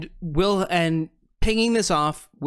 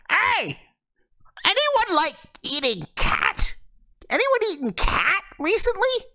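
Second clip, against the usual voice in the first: much higher, louder creature call; calling fish folk; 3 dB louder than usual. Acted. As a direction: shout to the others about a cat meal.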